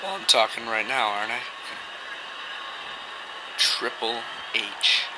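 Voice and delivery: quiet, cold heel promo; menacing wrestler promo. Acted.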